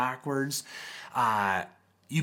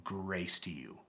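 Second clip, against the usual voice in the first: pastoral blessing; 4 semitones lower than usual. Retold or imitated. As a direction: bless them gently. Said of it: "a pastor's heart saying".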